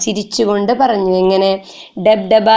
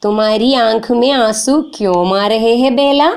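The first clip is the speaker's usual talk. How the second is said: Sahil asking. Acted. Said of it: "ചോദിക്കുകയാണ് സാഹിൽ".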